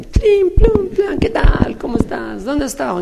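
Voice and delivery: very high, jingling coin voice; one-sol coin. Retold or imitated. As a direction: clink loudly, then squeak out a greeting. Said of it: "los de sol también vinieron". (voz agudísima de moneda que tintinea)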